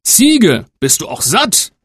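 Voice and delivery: father asking the goat, gentler; old father asking. Acted. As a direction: ask the goat kindly. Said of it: "streichelte das liebe Tier und fragte".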